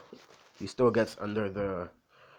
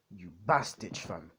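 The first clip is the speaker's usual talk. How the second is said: hammed-up British street accent; 3 semitones lower than usual. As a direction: toss off the insult in a mock British accent. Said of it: "British accent for a bit".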